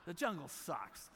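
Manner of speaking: "jungle" gestresst, langsam und lauter; emphatic, slow declaration. Real, not acted. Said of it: "Let's just get it out there".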